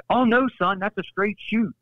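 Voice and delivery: imitating boss. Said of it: "he goes".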